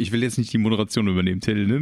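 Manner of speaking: fast, hyper rush of words; wound up. Real, not acted. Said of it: "ich bin so aufgedreht".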